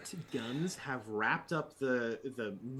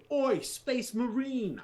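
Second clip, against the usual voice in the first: higher, slow, rough "Oi" calling out like a street thug; 10 semitones higher, 3 dB louder, slower than usual. Acted. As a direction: yell across to the marine like a rowdy goon. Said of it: "I don't know why they sound like that".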